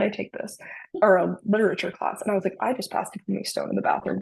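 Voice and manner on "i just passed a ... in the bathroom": flat deadpan delivery. Retold or imitated. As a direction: say it with no emotion. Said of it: "just, like, deadpan".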